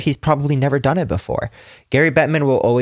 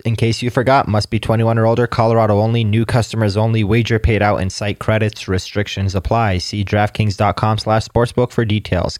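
brisk, even disclaimer read; legal disclaimer. Acted. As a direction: rattle off the fine print.

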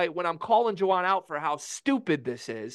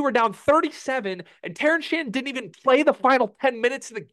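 real indignant tirade, higher and higher; irate rant; 8 semitones higher than usual. Real, not acted. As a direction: pitch climbing much higher, voice straining in fury. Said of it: "I'm irate".

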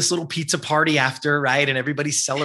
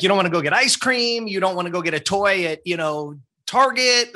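higher, amused disbelief; incredulous mom; 5 semitones higher than usual. Retold or imitated. Mom doubting her son wants sporting goods, higher amused disbelief. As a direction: tease the kid's odd request.

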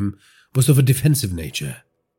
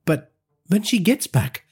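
haughty; 5 semitones higher than usual. Acted. Praveen continues haughty, high.

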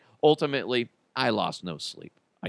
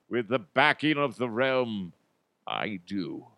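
a hint of a solemn festival groom; lightly voiced olde-world bridegroom; Renaissance groom. Groom answering the minister at faire wedding, lightly solemn. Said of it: "The groom's gonna be like".

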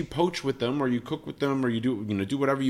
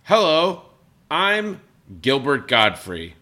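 loud, slow deliberate celebrity bit; same joke voice, louder; Gilbert Gottfried impression; 5 dB louder, slower than usual. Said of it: "the same voice that I do every time".

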